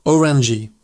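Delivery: Orangey with the G softened to an English J; Orangey, its G almost a J; soft G. Shown as a demonstration. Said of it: "G sound is a bit softer".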